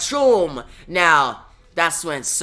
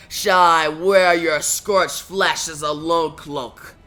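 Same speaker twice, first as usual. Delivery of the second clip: menacing giant voice; 3 semitones lower than usual. Acted. Fire giant taunting the heroes before battle, low and menacing. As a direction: speak like an ancient fire giant sizing up prey.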